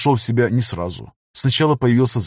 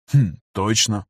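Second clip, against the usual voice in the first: wry smirk; slower than usual. Acted. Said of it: "усмехнулся Захар".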